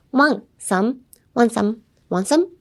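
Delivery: "Want some" as one quick word, T silent; run together. Shown as a demonstration. Teacher telling learners to say it really fast, run together. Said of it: "Pretend it's one word".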